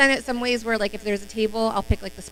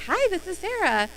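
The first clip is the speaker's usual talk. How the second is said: bright, higher phone greeting with a flat statement; wrong greeting demo; 10 semitones higher than usual. Shown as a demonstration. Showing trainees the wrong way to greet a raffle winner, higher and bright. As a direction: say it like you are Sarah yourself. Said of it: "th-, no".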